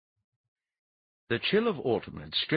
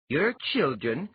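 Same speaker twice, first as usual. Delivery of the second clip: startled; 8 semitones higher, 5 dB louder than usual. A narrator's reading. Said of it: "Iliar sounded startled".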